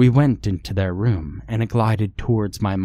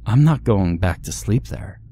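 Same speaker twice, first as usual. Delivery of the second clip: sudden exclaim; 4 dB louder than usual. Acted. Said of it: "she exclaimed suddenly".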